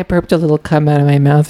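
quick, prim and apologetic; polite little man voice. Pretend. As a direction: apologize like a tiny gentleman. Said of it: "Saying it with that voice".

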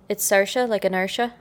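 lightly put-on Irish accent; Saoirse Ronan, Irish accent. Shown as a demonstration. Showing co-host a best Irish accent, impersonating an actress. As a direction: introduce yourself with an Irish lilt. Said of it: "impersonate Saoirse Ronan".

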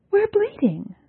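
high, tense cry of pain; strained anguish. A narrator's reading. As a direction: push it out hurt. Yalnis speaks, strained.

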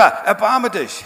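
loud, slow, drawn-out plea for mercy. Retold or imitated. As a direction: stretch the plea out over the crowd. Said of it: "Er schreit noch lauter". (laut und langsam flehend)

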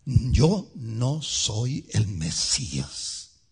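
slow, measured, blunt denial; clear and blunt. Acted. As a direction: spell it out slowly, leaving no doubt. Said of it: "claro y raspado".

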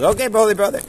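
beaming okay brother, pitched high; warm brotherly okay. Retold or imitated. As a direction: greet him like a long-lost brother. Shlomo warmly accepts the student.

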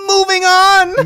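slow, high, loud announcer shout. Acted. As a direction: belt it out to change topic. Hosts shout the transition.

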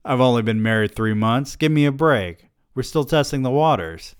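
loud, high-pitched self-justifying; defensive protest. Acted. Newlywed man excusing himself to his date, defensive. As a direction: plead your case, pitch climbing.

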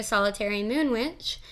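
"witch" slurred towards "wench". Real, not acted. Host introducing herself as a moon witch, "witch" sounding like "wench". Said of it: "it sounded like I said wench".

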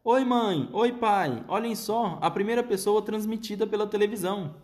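vozinha bem aguda de menino minúsculo; voz fininha de rato. A narrator's reading. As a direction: fale fino como um ratinho. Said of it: "uma voz fininha, baixinha, como um chiado de rato". (menino encolhido falando aos pais com voz de rato)

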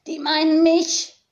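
high croaked raven remark; croaking raven. Acted. Friedwart the raven croaking to Tiziana that they mean him. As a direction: croak it out, quick on the uptake. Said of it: "krächzte Friedwart".

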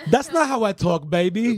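put-on high girlfriend voice; girlfriend impression. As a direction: protest as her, up high. Imitating girlfriend's protest.

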